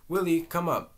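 loud, high call from another room. A narrator's reading. Wife calling her husband from her bedroom, loud call. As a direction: call up to him from upstairs. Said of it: "calling him from her room".

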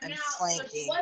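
I'm flanking rising high at the end; inflection slips back. Shown as a demonstration. Monotone game callout cracking into a high rise. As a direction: let the monotone break into a high questioning rise. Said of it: "You're like".

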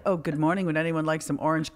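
soft, low, sugary fake courtesy; mock polite hostess. Hostess greeting the hungover stranger, softly fake-sweet. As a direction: sweet-talk him before throwing him out.

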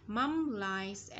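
"likes" with its closing S sounded; final S sounded. Shown as a demonstration. Teacher shows pupils the song words, final S sounded. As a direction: say "likes" carefully, finishing on an S. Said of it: "S ending sound".

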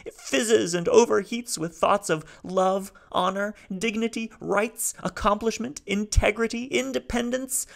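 speaking haltingly. Acted. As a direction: Salo piecing his words together. Salo's voice.

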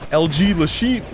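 "Lachine" as a slurred, garbled word. Real, not acted. Gamer fumbling the gun's name, slurred "Lachine". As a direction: run "Lachine" together as a stumble. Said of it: "Before I keep slurring my words".

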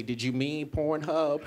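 slow, deadpan machine query; search engine voice. Retold or imitated. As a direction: read it like autocomplete asking. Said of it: "it'll just say".

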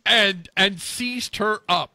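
slow, weighty storytelling; deliberately stretched, emphatic phrasing; dramatic telling. Pretend. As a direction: draw out "seized her up" for drama.

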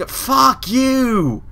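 very high squeaked fuck you; high-pitched exasperated curse; squeaky curse. Real, not acted. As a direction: squeal it at the game. Pick breaks, squeaky curse.

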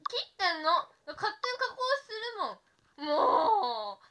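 high, loud complaint broken by laughter; whiny laughing complaint. Real, not acted. Streamer to viewers about the auto-filter, whining and laughing. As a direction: wail it while laughing.

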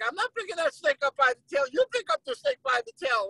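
mock defiant refusal; arguing back. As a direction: argue back like a reluctant underling. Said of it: "And they're arguing".

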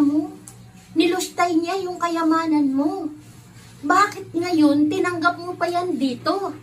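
jealous son protesting to his father; angry older son. Acted. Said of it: "siya'y galit na galit".

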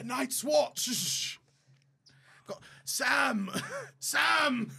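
lightly voiced fantasy hero; half-hearted impression, one name at a time; Jon Snow. Grasping at names from the show, half-hearted hero voice. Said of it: "just saying other characters' names".

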